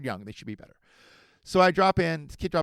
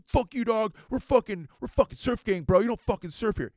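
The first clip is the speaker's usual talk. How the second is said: high, raised-voice surf bro; imitated angry gang boast, pitched up; mock territorial threat; 9 semitones higher, 5 dB louder than usual. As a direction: warn off an intruder like a puffed-up local.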